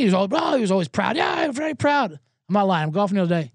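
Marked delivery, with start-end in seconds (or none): 1.2-2.2 put-on Korean accent. Steve quoted again.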